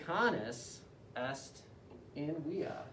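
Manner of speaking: very slow, each word apart; slow dictation. Shown as a demonstration. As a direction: read it out slowly for dictation. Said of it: "I'm gonna read a sentence aloud to you three times, slowly".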